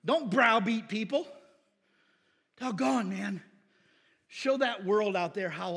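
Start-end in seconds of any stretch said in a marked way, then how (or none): none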